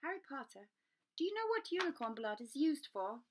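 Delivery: grave, measured centaur voice; a solemn forest creature posing a question; centaur Firenze. Acted. Centaur Firenze questions Harry gravely in the forest.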